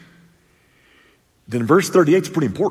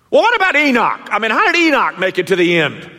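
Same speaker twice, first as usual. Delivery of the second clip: higher, faster, hesitant asker with a laugh; stammering questioner; 10 semitones higher, 6 dB louder, faster than usual. Acted. Preacher voicing a congregant asking about Abel, halting and amused. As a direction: play a flustered student fumbling the question.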